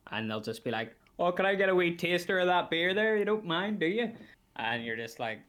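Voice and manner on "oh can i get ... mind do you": high, louder mocking wheedle; mock a cheeky punter in a high, raised voice; mimicked customer. Customer asks barman for a taster, mimicked.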